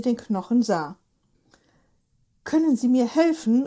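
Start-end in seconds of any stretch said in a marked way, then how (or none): 2.4-3.7 excited call. Acted. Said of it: "rief Hubert aufgeregt".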